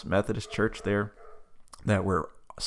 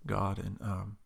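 prayer. Acted. Asked to close the show, praying for listeners.

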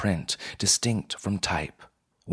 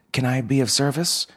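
bright eager clerk; 7 semitones higher, 4 dB louder, faster than usual. Acted. Clerk greets customer brightly.

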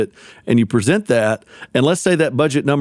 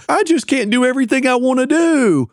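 whiny; 12 semitones higher than usual. Retold or imitated. Mocking whiny complaint.

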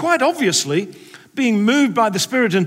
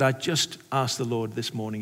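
tearful conviction; 7 semitones lower, 6 dB quieter than usual. Retold or imitated. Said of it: "it's tears of conviction".

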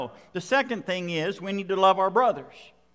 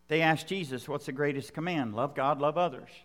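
quiet reflective preaching; 5 semitones lower, 6 dB quieter, faster than usual. Acted. Soft, low closing reflection.

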